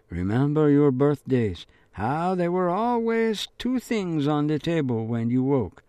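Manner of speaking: lightly voiced remembered letter; recited letter. Father's letter recited in head.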